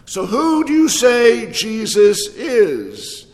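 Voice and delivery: drawn out, every word weighed slowly; slow it down and let it land; slow question. Shown as a demonstration. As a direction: pastor asking the room, slow and deliberate. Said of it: "say it strongly and boldly with enthusiasm".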